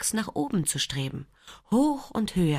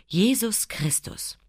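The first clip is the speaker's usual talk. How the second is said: hushed church answer; whispered response; 2 semitones higher, slower than usual. Retold or imitated. Narrator recalling church, whispering the response. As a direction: whisper it slowly, reverent.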